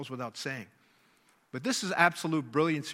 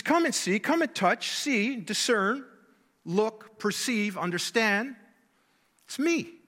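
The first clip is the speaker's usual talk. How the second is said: fervent invitation; 2 semitones higher than usual. Acted. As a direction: call them in with rising fervour, peaking on It's me. Jesus invites disciples, rising fervour.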